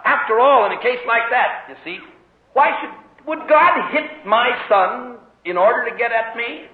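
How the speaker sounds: objector's question. Retold or imitated. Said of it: "but someone says".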